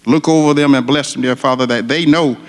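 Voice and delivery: fervent spoken prayer, rising in waves on "dear Father"; earnest prayer. Real, not acted. Retired firefighter leading the crowd in prayer, earnest and fervent. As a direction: pray aloud for the firefighters and their families.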